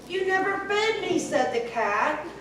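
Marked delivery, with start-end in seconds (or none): 0.1-1.2 a higher, quicker light cat voice; the cat answers back briskly. A narrator's reading.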